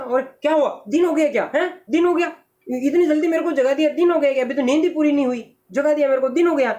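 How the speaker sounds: high, hurried, confused questions; a crow jolted out of sleep, pitched high; startled awake. Acted. Startled crow woken too early. (हड़बड़ाकर जागे कौवे की ऊँची आवाज़)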